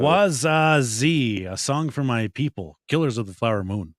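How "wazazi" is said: put-on Indian accent. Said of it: "I kinda went into my Indian accent there".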